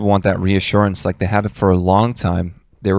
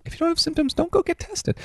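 mock officials advice; 8 dB quieter than usual. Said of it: "they're like".

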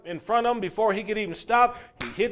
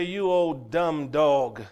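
slow, dismissive drawl without the shout; mock indifference; 3 semitones lower, much slower than usual. Preacher voicing an uncaring person, slow dismissive jeer. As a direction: drag it out coldly, like someone who doesn't care. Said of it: "and then say".

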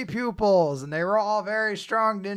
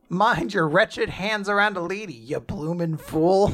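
mock scolding in a vague British accent; rough stab at an old-fashioned British accent; unknown British-style accent. Lady scolding a man who touched her, in a vague British accent. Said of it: "I don't know what accent that's meant to be".

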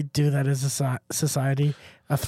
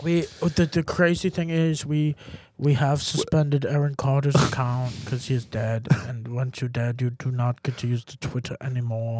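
put-on stilted accented explanation; halting tech-boss impression, trailing softer; Elon Musk; 4 semitones lower, 4 dB quieter than usual. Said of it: "I think Elon sounds like that".

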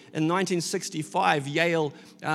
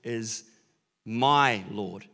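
reverent confession; 7 semitones lower, slower than usual. Retold or imitated. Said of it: "he would have said".

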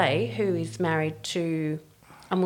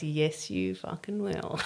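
under-breath triumph; 6 dB quieter, slower than usual. Retold or imitated. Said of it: "she goes".

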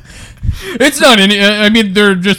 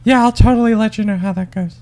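receptionist voice; 5 semitones higher than usual. Retold or imitated. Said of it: "so she goes".

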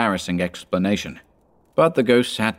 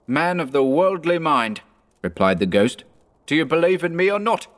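high, urgent spectral demand; ghost voice; 7 semitones higher than usual. A narrator's reading. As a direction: loom over him, demanding.

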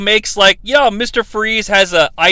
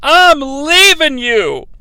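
mock angry wife; 6 semitones higher, 3 dB louder than usual. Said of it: "she's like".

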